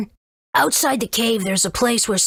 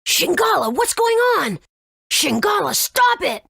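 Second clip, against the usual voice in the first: desperate shout; 9 semitones higher than usual. Acted. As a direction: scream his name to make him stop. Owner calls to out-of-control pet.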